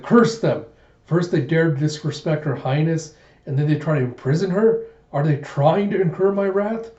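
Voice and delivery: a hammed-up outburst of fury; furious. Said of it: "Gita's just getting furious".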